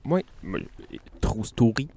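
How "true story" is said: true story in a mock English-French accent. Host showing off his English-French accent, mock accent. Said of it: "Avec mon accent, euh, anglais-français".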